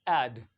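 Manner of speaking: "ऐड" as 'aed', pitched low; open 'ae' vowel. Shown as a demonstration. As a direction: drop low on a firm "ऐड", front vowel. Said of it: "क्या पढ़ते हैं?".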